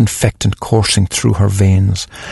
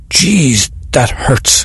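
complaining; 5 semitones higher, much slower than usual. Acted.

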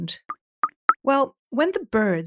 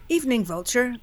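nonchalant; 3 semitones higher than usual. Acted. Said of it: "Bat said nonchalantly".

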